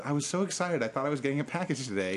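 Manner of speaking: peppy neighbor voice. Retold or imitated. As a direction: play the peppy young neighbor gushing. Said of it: "my peppy young neighbor".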